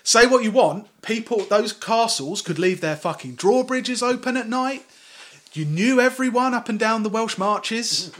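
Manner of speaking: hammed-up defense of the old ways; mock defensive rant. Mock defense of medieval law.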